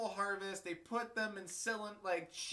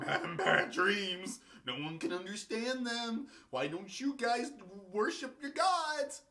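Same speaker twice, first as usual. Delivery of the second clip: whiny Pharaoh; 5 dB louder than usual. Retold or imitated. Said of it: "going on".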